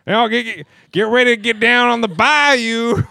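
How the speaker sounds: hyped announcer. Pretend. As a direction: pump up the crowd, loud. Hyping up swamp joke.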